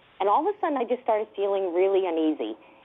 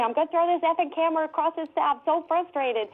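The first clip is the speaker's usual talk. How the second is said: retold frustration; 7 semitones higher than usual. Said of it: "I'm freaking out".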